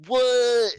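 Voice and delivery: high loud shocked exclamation; shocked what. Retold or imitated. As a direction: react in total disbelief. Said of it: "and I was like".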